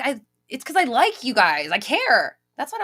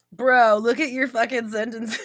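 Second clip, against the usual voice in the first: slower, words breaking with laughter; laughing through quote; 4 dB louder than usual. Real, not acted. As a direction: quote yourself while cracking up. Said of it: "When Leanne puts the quotes up".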